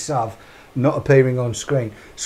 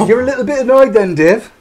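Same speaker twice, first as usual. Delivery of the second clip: laughing, quick and louder teasing; 6 semitones higher, 7 dB louder than usual. Real, not acted. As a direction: rib him through a laugh, a bit fast. Teasing co-host while laughing.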